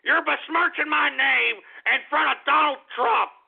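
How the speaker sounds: theatrical indignation; hammed-up outrage. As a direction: overplay the wounded pride. Repeated complaint, heightened.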